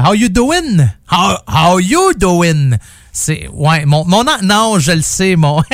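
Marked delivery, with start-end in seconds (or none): 0.0-0.9 lightly imitated catchphrase, higher pitched; quick first try at a sitcom catchphrase in French-accented English; Joey. Radio host greeting listeners with a sitcom line, light impression. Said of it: "je reprenais la phrase célèbre de Joey". 1.1-2.8 slow, drawn-out catchphrase with a stretched YOU; Joey. Retold or imitated. Radio host retrying a sitcom catchphrase, slow hammed-up impression. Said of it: "je reprenais la phrase célèbre de Joey".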